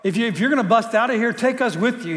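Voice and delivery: casual desperate thief; street-talk paraphrase. Retold or imitated. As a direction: pitch it like a buddy planning a jailbreak. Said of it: "he was saying".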